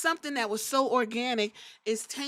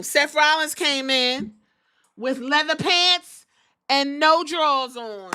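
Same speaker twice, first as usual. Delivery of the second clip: slow, loud, higher hype reveal; loud, drawn-out gossip reveal; hype announcement; 4 semitones higher, 5 dB louder than usual. Real, not acted. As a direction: build it like a ring announcer.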